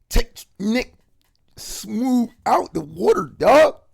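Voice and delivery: high, loud booming command; voice of God. Retold or imitated. God rescuing a drowning man in the testimony: loud high command. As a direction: call it out like a voice over stormy water. God's voice calming the waters.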